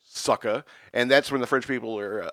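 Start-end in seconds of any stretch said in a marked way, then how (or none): 0.0-0.6 loud, high mock rant; railing rant. Still ranting at Ben Franklin about the hundred dollar bill. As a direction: lecture him, indignant. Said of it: "continued railing at him".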